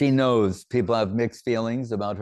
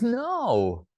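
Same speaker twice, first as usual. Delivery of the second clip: emphatic correction; 3 semitones higher, much slower than usual. Retold or imitated. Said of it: "He goes".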